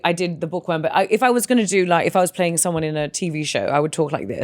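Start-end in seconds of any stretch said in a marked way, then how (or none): 3.7-4.4 lower, measured standard British; standard British accent. Shown as a demonstration. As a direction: speak in TV-drama standard British. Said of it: "Do your standard".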